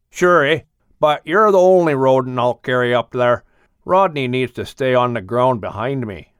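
slightly bigger, firmer moose voice; moose Murray. Acted.

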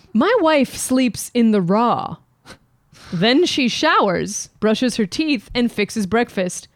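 slow, deliberate reading of a letter. Acted. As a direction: read it out slowly, savoring each line. Reads Dear Abby letter aloud.

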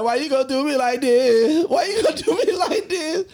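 high, wailing fake sob; imitating cousin's mock cry. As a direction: play her hammed-up heartbreak. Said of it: "Tiffany like".

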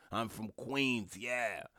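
lightly mocked, drawn-out New York tough guy; tough New Yorker. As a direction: stretch it out with mock borough pride. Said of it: "all of the tough guy".

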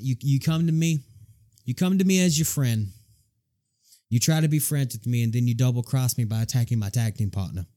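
brash Boston bad boy promo; wrestling promo. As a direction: threaten him like a ring heel. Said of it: "it was in my character".

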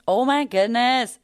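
drawn-out thrilled oh my goodness; excited squeal. Real, not acted. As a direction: gush with delight at the listeners. Excited shout out to Canadians.

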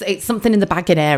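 quick imitation of a checkout announcement; a hint of talking till; self-checkout voice. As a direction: lightly mimic the till's automated warning. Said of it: "And it goes bing".

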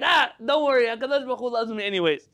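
high-pitched, carefree brush-off; acting out an airy self-excuse; breezy mock dismissal. Acted self-excuse, brushing off the rules.

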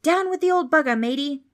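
loud, high pirate battle cry; charging pirate whoop; pirate shout. A narrator's reading. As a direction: yell it like a boy playing pirate captain.

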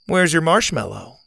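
a hint of a spunky girl; Zeta girl voice.

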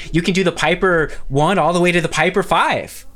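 flirty woman. Acted.

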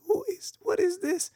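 high, breathless whisper of surprise; a sudden hushed what-is-this; startled whisper. Retold or imitated. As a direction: hush it out as if caught off guard. Surprised by little finger.

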